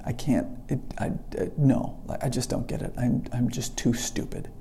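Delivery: soft, defeated self-talk; dejected. Retold or imitated. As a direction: give up quietly, as if beaten. Voicing his own despair in class.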